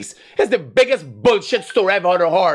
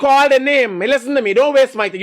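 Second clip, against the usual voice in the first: loud, raised demand; angry shout; 7 semitones higher, 4 dB louder than usual. Real, not acted. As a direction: bark it at the stalling caller. Host berates evasive caller.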